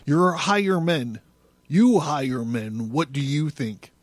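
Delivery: intense, theatrical recital of a prophetic text; solemn, swelling literary performance; dramatic reading. A narrator's reading. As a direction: declaim it like a poet possessed.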